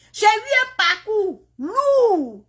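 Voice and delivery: slow, high, wavering cry half laughing; real tears pushing through a laugh. Real, not acted. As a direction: let it break into a tearful laugh. Recounting her hard journey, tearful.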